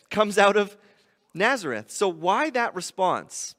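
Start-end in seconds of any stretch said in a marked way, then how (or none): 0.1-1.9 skeptical disbelief. Acted. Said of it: "Nathanael's response is".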